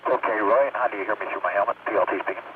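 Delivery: speaking inside a helmet; muffled, as if through a helmet visor. Real, not acted. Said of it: "just a little bit more muffled than normal".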